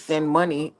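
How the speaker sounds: lightly voiced old granny asking; a hint of a begging grandma. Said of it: "And my granny voice".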